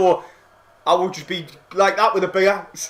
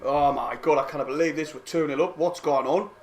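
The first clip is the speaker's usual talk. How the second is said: hushed disbelief; 8 semitones lower, 8 dB quieter than usual. Real, not acted. Quiet disbelief at two nil.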